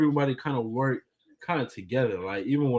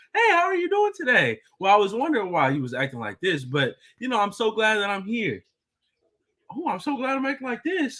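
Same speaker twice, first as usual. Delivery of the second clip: cheerful, bright, very high, sing-song happy voice; 10 semitones higher than usual. Imitating her saying it in a happy, polite way. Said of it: "she'll say it too, like, in a happy".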